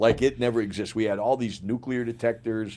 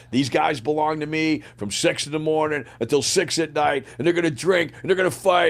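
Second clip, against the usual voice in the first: retold rant climbing higher in pitch; cocky rant; 4 semitones higher than usual. Sergeant major telling off the chaplain colonel, cocky building rant. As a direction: build it up, imitating a defiant soldier.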